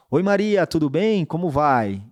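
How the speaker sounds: high, loud, upbeat phone hello; bright cheerful greeting. Shown as a demonstration. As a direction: greet her warmly and brightly, with energy. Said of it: "Vou me comunicar dessa forma". (saudação animada, alta e aguda ao telefone)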